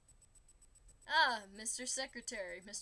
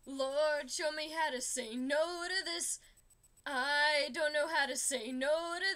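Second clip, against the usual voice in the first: louder, pushed-out prayer; 6 dB louder than usual. Pretend. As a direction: plead with the Lord at full voice. Second prayer verse, pushed hard.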